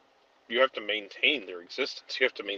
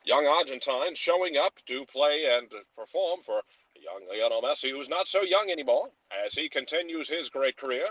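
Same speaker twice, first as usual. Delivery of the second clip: put-on old-timey radio voice; 2 semitones higher than usual. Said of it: "old-timey radio voice".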